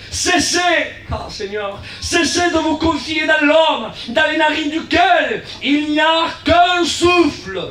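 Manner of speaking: slow, ringing preacher's proclamation; preaching at full force. Acted. Preacher proclaiming Isaiah to the church, slow and ringing.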